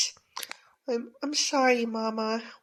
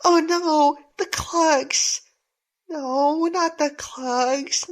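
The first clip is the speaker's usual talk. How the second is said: dismayed cry; 3 semitones higher, 4 dB louder, much slower than usual. Acted. Clogs smashed by bullies.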